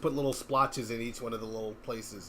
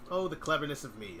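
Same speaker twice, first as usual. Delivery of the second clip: Peter Pan; 3 semitones higher than usual. Retold or imitated. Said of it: "as Peter Pan would say".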